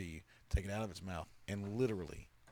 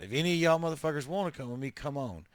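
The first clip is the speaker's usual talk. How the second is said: fed-up last call; 4 semitones higher than usual. Retold or imitated.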